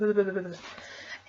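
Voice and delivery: stuttered brrr from the cold; shivering noise. Real, not acted. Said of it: "I'm shaking, I'm freezing".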